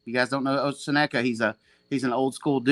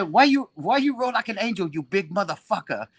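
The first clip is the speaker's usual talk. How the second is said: Seneca impression; 6 semitones higher than usual. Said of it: "I got a good Seneca impression".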